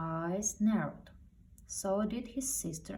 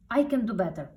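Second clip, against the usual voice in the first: sudden outburst; 4 semitones higher, 9 dB louder, faster than usual. A narrator's reading. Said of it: "Splat said suddenly".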